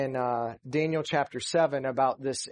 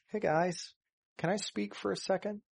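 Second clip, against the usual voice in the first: light, quick, softer polite request; mock-timid, asking permission to speak; a casual, overly polite hey guys; mild polite ask; 5 semitones higher, 6 dB quieter than usual. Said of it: "This wasn't just like a mild, polite kind of like".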